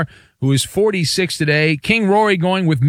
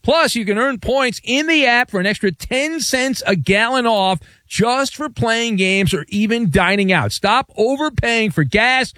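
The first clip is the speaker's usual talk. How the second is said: ad read; 4 semitones higher than usual. Acted. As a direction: sell the app in a warm pitch. Host reads a gas ad.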